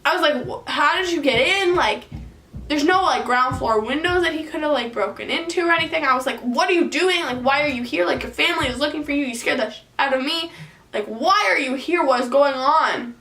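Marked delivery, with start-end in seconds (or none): 0.5-1.7 higher, demanding question; pressing him, pitched up; incredulous demand. Retold or imitated. Confronting boyfriend again. 6.4-13.2 scolding him, incredulous; retold scolding. Scolding boyfriend who broke in.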